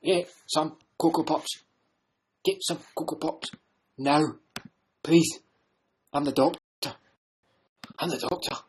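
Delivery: a hint of the Scottish voice, pleading; mild Scottish coaxing; lightly Scottish voice. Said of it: "The who?".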